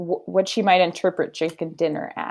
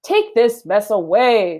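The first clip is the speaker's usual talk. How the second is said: stern husband; 2 semitones higher, 5 dB louder, slower than usual. Acted. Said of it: "said Mister Rogers".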